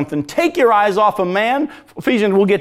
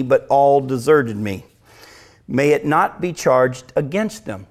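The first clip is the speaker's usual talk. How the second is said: scripture reading; 3 semitones lower, slower than usual. Acted. Reading Paul's words.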